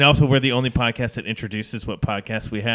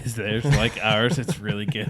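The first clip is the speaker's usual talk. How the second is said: mocking repeat. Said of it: "Is that what you just said?".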